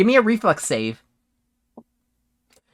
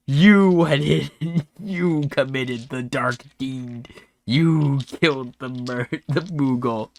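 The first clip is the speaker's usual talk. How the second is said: slow, lightly voiced old man; accusing old man; 3 semitones lower, slower than usual. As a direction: accuse slowly, with mild drama. Old man accuses the cat lieutenant.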